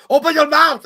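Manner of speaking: very high, loud bellow; mock Austrian action-hero yell; shouted impression. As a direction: roar it at the kid like Schwarzenegger. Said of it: "He's like".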